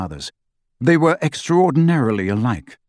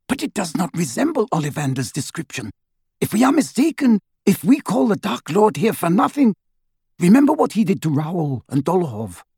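a cold, clear woman's voice, pitched higher; Narcissa, cool and precise, warning her husband; icy and measured, a touch higher; 7 semitones higher than usual. Acted. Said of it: "in her cold, clear voice".

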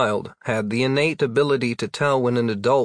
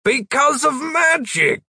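high, lame excuse; 3 dB louder than usual. Acted. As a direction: blurt it out, embarrassed. Wizard fumbling an answer.

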